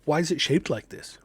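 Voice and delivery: high, startled rush of words; shocked. Retold or imitated. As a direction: blurt it out in disbelief.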